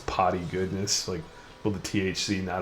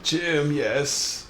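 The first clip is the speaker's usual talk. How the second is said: hammed-up fan cheer; imagined cheering fans; 4 semitones higher than usual. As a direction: play the adoring crowd, lightly.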